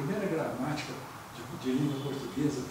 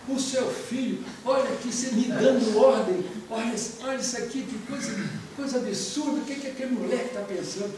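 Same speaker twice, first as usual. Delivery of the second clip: raised, indignant rant at his wife; fuming father; 6 semitones higher, 3 dB louder than usual. Acted. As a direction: act out an outraged father, higher and louder. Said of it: "ele tava fuzilando".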